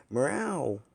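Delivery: loud, high rallying yell; a sudden battle-cry shout that wakes everyone; rousing shout. Acted. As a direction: bellow it across the camp. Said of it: "who's yelling now?".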